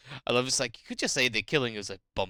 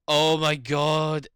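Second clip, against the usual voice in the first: loud, drawn-out gasp of recognition; gasp, then slowly exclaim in disbelief; stunned and loud; real astonishment; 5 semitones higher, 7 dB louder, much slower than usual. Real, not acted. Recognises a returning game character.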